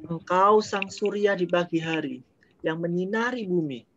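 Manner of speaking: poetic, emphatic address to the sun; expressive recitation. Shown as a demonstration. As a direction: declaim it with feeling. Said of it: "Nah, seperti itu". (deklamasi puisi dengan penekanan)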